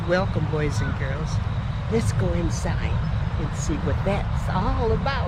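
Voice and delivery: lightly voiced welcoming figure; statue greeting. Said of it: "he says".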